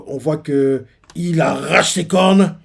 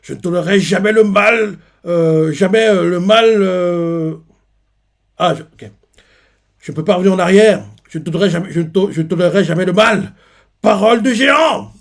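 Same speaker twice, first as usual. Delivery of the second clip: loud, higher, weeping oath; tearful vow; 5 semitones higher, 6 dB louder than usual. Retold or imitated. Weeping Harald vows never to tolerate evil. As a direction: swear it through tears, rising to a shout. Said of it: "là, il pleure".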